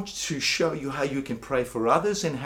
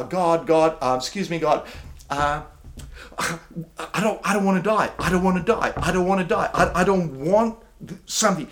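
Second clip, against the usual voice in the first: mock hesitant plea, a bit louder, stumbling; timid begging prayer; 2 semitones higher, 3 dB louder than usual. Pastor mimics a timid believer begging God, hesitant and pleading. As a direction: play a nervous believer pleading not to die. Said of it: "I'm not saying".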